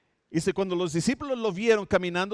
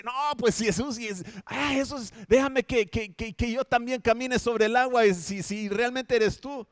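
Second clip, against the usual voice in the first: higher, hesitant, stumbling plea; imagined Peter; 5 semitones higher than usual. Retold or imitated. Peter hesitantly asks Jesus to let him walk, higher voice. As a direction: stammer out the bold request. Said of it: "quizás él dice".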